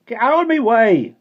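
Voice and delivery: put-on loud, high Cornish-accented shout; furious Cornish boy shouting; angry Cornish snarl. A narrator's reading. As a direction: shove them aside with an ugly, angry yell. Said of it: "made ugly by anger".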